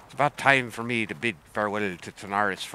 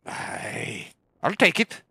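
pirate voice; 5 dB louder, slower than usual. Pretend. Pirate accepting quest.

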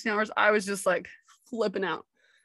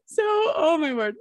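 overwhelmed; 8 semitones higher, slower than usual. Real, not acted. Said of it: "I was feeling unqualified".

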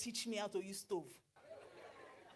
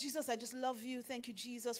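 hushed, softer little prayer; soft prayer quote; 2 semitones lower, 11 dB quieter than usual. Retold or imitated. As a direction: murmur a simple grateful prayer. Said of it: "My prayer is".

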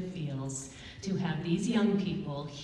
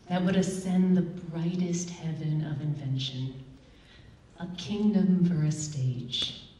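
slow, projected verse with weighty pauses; stage prologue, stretched out line by line; Shakespeare recitation; 4 dB louder than usual. Acted. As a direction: declaim it grandly to the theater, opening loud.

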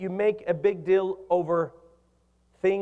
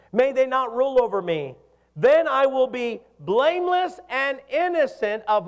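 higher, emphatic scripture proclamation; preached scripture reading; 4 semitones higher, 4 dB louder than usual. Acted. Preacher reading David's psalm to the congregation, emphatic proclamation. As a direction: proclaim the psalm with weight on each phrase.

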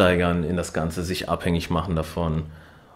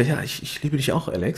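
higher, hesitant mock girlfriend voice; unsure girlfriend; 6 semitones higher than usual. Retelling the girlfriend's unsure reply, hesitant. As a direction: falter it out, not meaning it. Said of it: "sagt dann so unsicher".

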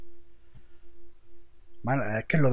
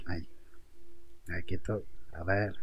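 normal talking voice

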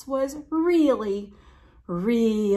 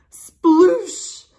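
sploosh blurted loud and high; loud splash word; 7 semitones higher, 12 dB louder than usual. Acted. Reading to kids, sploosh shouted with glee. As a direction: burst out the sploosh with a big splash. Mouse lands in puddle.

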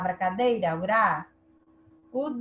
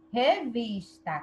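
"Revista" slow, with weight on "vis"; strongest syllable stressed; slower than usual. Shown as a demonstration. Teacher counting again, "Revista" slowly stressed on "vis". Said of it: "Qual é a mais forte".

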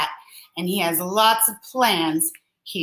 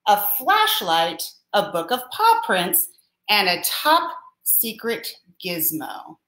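storybook reading. A narrator's reading. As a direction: lively list read to children.

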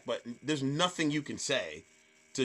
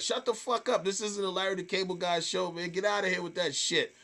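higher, lightly indignant telling-off; retold scolding; 5 semitones higher than usual. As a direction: shoo a heckler away, without going all out. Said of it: "I was using language like".

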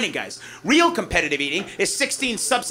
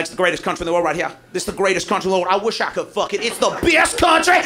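patriotic American. Retold or imitated.

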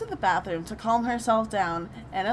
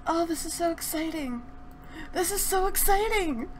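hammed-up excitement; 5 semitones higher than usual. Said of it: "trying to practice my acting".

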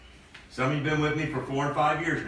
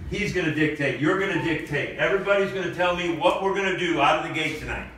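pep talk; 3 semitones higher than usual. Acted. Coach fires up team.

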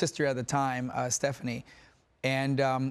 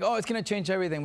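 mild mock warning, higher and fast; retold warning; 5 semitones higher, faster than usual. Guest quoting people who warn new parents, mock warning. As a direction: quote a well-meant warning, quick and raised. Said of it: "they warn you".

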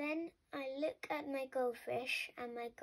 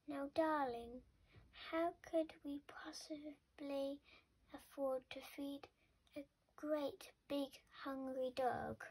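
end of the matter. Acted. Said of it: "This really is the end of the matter" voice".

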